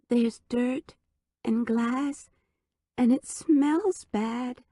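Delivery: lightly voiced toddler; recalled baby voice. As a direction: echo the child's words. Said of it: "whispered in a baby voice".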